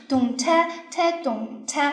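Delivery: crisp, light tek against the dum; spoken drum pattern. Shown as a demonstration. Teacher demonstrates the drum strokes, spoken rhythmic beats. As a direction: voice a drum rhythm in spaced syllables. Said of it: "声音是脆一点".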